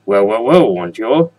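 loud, hammed-up French guy accent; bad French accent. Gamer finding submarine pieces, in a mock French accent. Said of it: "my horrible and probably offensive French guy accent".

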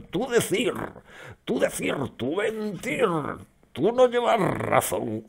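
high, loud, grunting caveman voice in broken verbs; caveman talk. Retold or imitated. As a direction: play a furious caveman swinging a club. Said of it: "Se le está metiendo la vena de unga unga".

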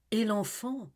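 high, urgent ask; anxious question. Acted. Amy reminding Olivier of her daughter, anxious. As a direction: press him about the child.

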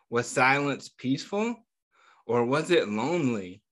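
put-on reading a picture book aloud to kids, a touch lively; story narration. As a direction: tell the story gently to a class of children. Teacher reads picture book aloud.

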